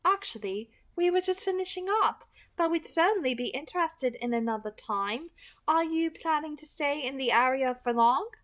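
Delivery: friendly, measured leader voice. A narrator's reading. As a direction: keep it light and courteous to the strangers. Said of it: "Kareen matched Lauren's friendly tone".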